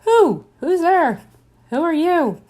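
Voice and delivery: high, loud hooting owl questions; playful high owl calling. Pretend. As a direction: hoot it out like a curious owl. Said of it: "if I was an owl, I'd be saying".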